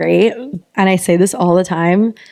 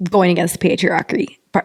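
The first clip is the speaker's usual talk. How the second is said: put-on accidental Southern accent. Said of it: "Was that Kentucky?".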